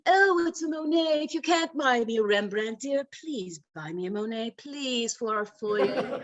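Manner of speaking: lightly voiced rich socialite exclaiming; a hint of a pampered wife begging; Mrs. Howell mode. Wife begging husband for a Monet, mock posh. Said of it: "Missus Howell mode".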